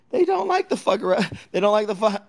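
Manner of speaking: words broken up by laughter; laughing. Real, not acted. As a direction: laugh through it.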